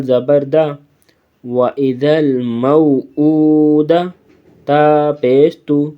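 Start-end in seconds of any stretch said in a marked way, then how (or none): 1.4-4.1 slow, melodic recitation of وَإِذَا الْمَوْءُودَةُ; Quran recitation. Shown as a demonstration. Teacher recites the verse slowly for the pupils. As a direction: intone it slowly like tajweed recitation. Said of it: "recitation demo".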